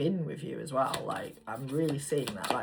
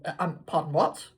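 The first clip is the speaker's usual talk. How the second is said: flustered giggle; 3 semitones higher, 6 dB louder than usual. Retold or imitated. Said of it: "you're gonna be like".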